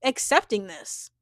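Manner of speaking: lightly acted confrontation, emphatic at first; imagine her firmly calling him out; a touch of indignant pushback; standing up firmly. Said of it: "she's stepping into her power".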